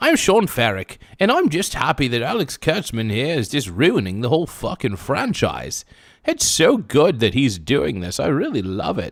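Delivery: animated put-on voice with pitch swooping around. Mocking a fan while drifting into a Patrick Stewart voice. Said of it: "I'm starting to sound more like Patrick Stewart here".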